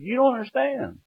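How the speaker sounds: hammed-up, high-pitched protest; mock panic. Jailed son telling the sheriff about dad, mock panic. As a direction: plead loudly in comic dread, stretching the last words.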